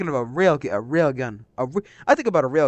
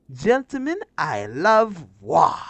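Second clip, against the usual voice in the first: mock Major speech; 4 dB louder than usual. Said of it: "reciting the Major's speech".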